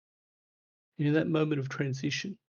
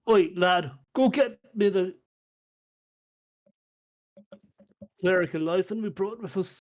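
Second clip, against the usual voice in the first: loud, higher bark down the hall; dwarf calling out; 4 semitones higher, 5 dB louder than usual. Acted. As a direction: shout an order through the door. Dwarf calls servant.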